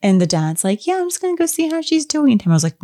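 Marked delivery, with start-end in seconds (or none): 0.9-2.3 high, quick offhand dad impression; retold casual dad. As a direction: voice the dad hurrying off, pitched up and fast. Voices the dad brushing Tamara off.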